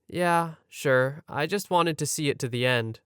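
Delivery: understated, composed reply; very calm. Retold or imitated. Sleep-talking roommate answers concerned friend, very calm. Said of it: "in the calmest voice ever".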